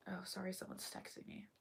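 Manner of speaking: whispering. Real, not acted. Aside while reading.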